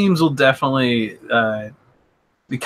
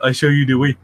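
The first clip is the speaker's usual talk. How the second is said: put-on Ugandan Knuckles accent; faster than usual. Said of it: "Oh, the Ugandan Knuckles?".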